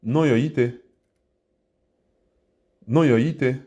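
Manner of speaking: non, yo, ite said with its tones; tonal demo. Shown as a demonstration. Teacher models grande sœur for learners, tonal non, yo, ite. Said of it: "Donc, grande sœur".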